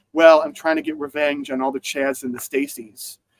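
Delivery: ordinary talk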